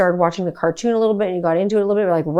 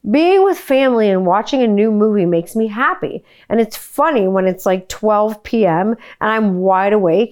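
reading son's note; 2 semitones higher than usual. Shown as a demonstration. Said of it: "I'm gonna try not to laugh".

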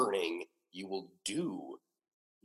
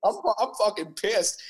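slow, louder and higher declaration of anger; pissed off; 8 semitones higher, 4 dB louder, slower than usual. Pretend. Host insisting to co-host that he is angry, pissed off. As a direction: lean into being pissed, drawn out. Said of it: "I'm pissed".

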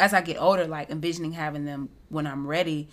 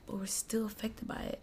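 soft whisper, higher pitch; whispered aside; 4 semitones higher, 11 dB quieter than usual. Real, not acted. Admitting to a friend in a whisper. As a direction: let it slip out in a whisper. Confiding aside about social media.

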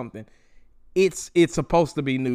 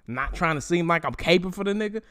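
mock journalist voice; 2 semitones higher than usual. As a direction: sneer out his fake neutrality. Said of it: "as if he's like".

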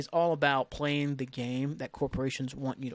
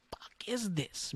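a slow, voiceless whisper of disbelief; 4 semitones higher, 8 dB quieter, much slower than usual. Real, not acted. A ranting vlogger whispers in disbelief at app rules. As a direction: breathe the curse out with no voice, slowly. Exasperated rant aside.

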